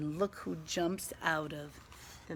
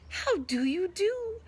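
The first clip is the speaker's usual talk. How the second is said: loud, high, bubbly announcing; excited mole; 5 semitones higher, 7 dB louder than usual. Acted. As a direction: burst with the surprise. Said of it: "squeals Mole".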